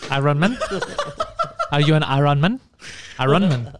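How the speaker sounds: "Iron" said as eye-RON, with a full second vowel; teasing mispronunciation. Retold or imitated. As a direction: tease with "Iron" as two clear syllables, eye-ron. Teasing friend over saying "iron.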